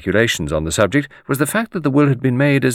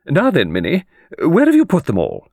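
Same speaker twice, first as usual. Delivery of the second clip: higher, commanding lady's voice; imperious employer, pitched up; brisk old mistress; 7 semitones higher, 3 dB louder than usual. A narrator's reading. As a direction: question the companion briskly from on high. Voices brisk Miss Arundel.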